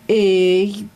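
scared knight stutters his own name; stuttering. A narrator's reading. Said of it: "stotterte er".

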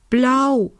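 fairy voice, high squeak; squeaky. A narrator's reading. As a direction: peep it out high like a tiny fairy. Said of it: "piepste die Elfe".

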